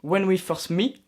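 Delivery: light English accent on the title. Shown as a demonstration. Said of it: "mon accent anglais te surpasse". (titre dit avec un léger accent anglais)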